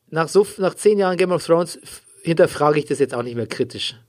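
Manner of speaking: poor audio quality; muffled, lossy stream sound; low quality stream. Real, not acted. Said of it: "sorry für die Tonqualität".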